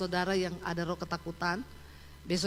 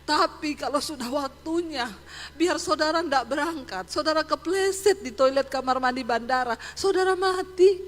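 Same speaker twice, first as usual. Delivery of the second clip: building punchline; 4 semitones higher, 4 dB louder than usual. Retold or imitated. Punchline of the video message.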